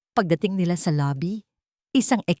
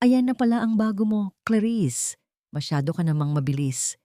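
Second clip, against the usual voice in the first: mild mocking sneer; 3 semitones higher than usual. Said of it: "mapanuyang ngiti".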